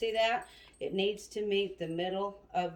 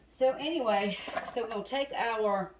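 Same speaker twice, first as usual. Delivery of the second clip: short of breath from asthma; 3 semitones higher than usual. Real, not acted. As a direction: talk while breathing hard. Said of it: "pardon me for acting like I'm out of breath".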